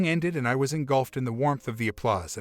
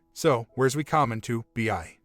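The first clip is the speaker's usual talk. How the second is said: imitating Newfoundland accent. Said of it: "imitating her accent as best I could".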